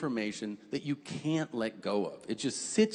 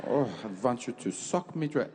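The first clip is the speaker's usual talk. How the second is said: sleazy soldier; 3 semitones lower than usual. Pretend. Horny German soldier voiced.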